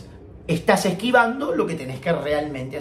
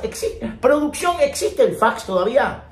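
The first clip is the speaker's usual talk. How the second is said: higher and louder call to the crew; 8 semitones higher, 4 dB louder than usual. Real, not acted. Teacher calls out to his production team, louder and higher. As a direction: shout over to production, amused.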